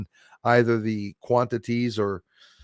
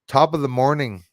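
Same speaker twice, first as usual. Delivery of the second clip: light Irish lilt; playful Irish accent; 2 semitones higher, 5 dB louder than usual. Pretend. Streamer greeting a viewer for Saint Patrick, playful Irish accent. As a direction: greet with a touch of put-on Irish. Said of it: "I like saying it in Irish".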